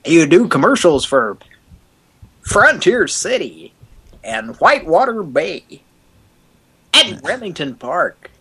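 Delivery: hammed-up hype commercial voice; fake excited announcer. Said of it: "overly excited sounding voice".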